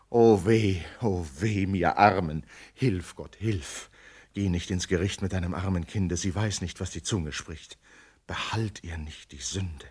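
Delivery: quiet, anxious plea to God; hushed pleading prayer. Acted. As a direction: pray under your breath for her. Mother begging God's forgiveness.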